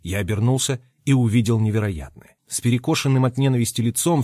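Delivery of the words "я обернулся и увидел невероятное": ordinary delivery, nothing marked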